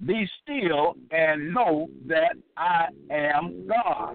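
very slow, weighty psalm reading; deliberate, solemn recitation; scripture reading. Acted. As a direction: draw out each word of the verse. Reads a psalm verse aloud.

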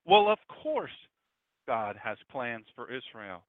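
proud affirmation. Retold or imitated. People of ten years ago agreeing with the pastor, proud affirmation. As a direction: declare it as a proud certainty. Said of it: "they said it proudly".

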